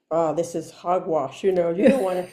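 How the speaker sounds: lightly voiced low naysayer; scoffing inner voice. Her other part dismissing the church, scoffing. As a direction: brush it all off in mock scorn. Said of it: "the other part says".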